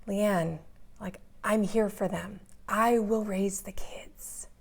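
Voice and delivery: gently voiced mother-in-law, slowing and softening to breathy at the end; kind, loving. Mother-in-law offering to raise the kids, kind and loving. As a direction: offer it tenderly, understated. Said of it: "very kindly and lovingly said".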